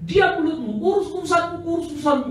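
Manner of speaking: high, loud retort to shut her up; sharp rebuke. Retold or imitated. Preacher silencing the protesting woman, loud rebuke. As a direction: snap back, mind your own business.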